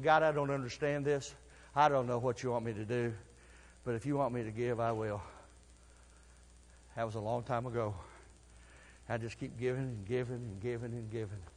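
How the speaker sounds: soft, low quiet prayer; hushed confession to God; humble prayer. Retold or imitated. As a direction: pray it softly, surrendering.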